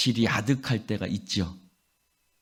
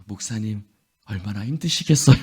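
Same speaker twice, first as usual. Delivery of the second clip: sympathetic; 2 semitones lower than usual. Acted. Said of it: "그런 말을 듣고 싶은데".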